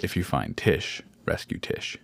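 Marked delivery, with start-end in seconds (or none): 1.2-2.0 whispering. Acted. Whispered in sneaking scene.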